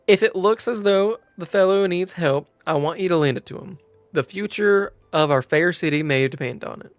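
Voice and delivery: put-on earnest quest-giver with a light southern accent. Quest-giver sends adventurer to help the fellow, southern accent. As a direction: urge them on in a southern accent. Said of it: "Now can I escape the southern accent".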